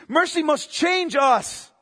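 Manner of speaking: slow, weighty restatement; slow emphatic repeat. Real, not acted. Preacher repeating his point slowly to the flock. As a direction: say it again, slow and heavy. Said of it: "repeated climax".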